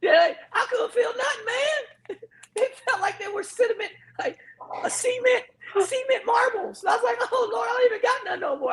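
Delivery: high voice breaking with laughter; laughing. Real, not acted. Telling friends about frozen toes, high laughing complaint. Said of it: "It never gets old, laughter every time".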